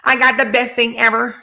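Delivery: high, excited bragging; giddy gushing. Retold or imitated. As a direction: gush over the perfect man. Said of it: "she was like".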